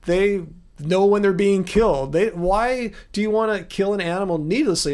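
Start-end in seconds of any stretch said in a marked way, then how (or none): 2.1-4.9 needlessly leaned on with a little extra weight; stress on needlessly. Real, not acted. Asking the viewer why kill needlessly, stress on needlessly. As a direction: press gently on needlessly to make the point. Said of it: "I emphasize the word needlessly".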